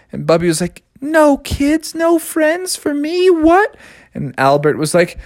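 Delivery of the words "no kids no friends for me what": put-on disappointed kid. Child hears bad news.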